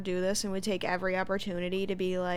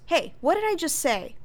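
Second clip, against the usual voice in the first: Carrie; 8 semitones higher, 4 dB louder than usual. Retold or imitated. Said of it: "Carrie goes".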